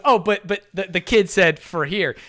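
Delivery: stammering mock confusion; retold confusion. Confused worker querying dad's order, hesitant. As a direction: play a mildly baffled counter worker, stumbling. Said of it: "is extremely confused".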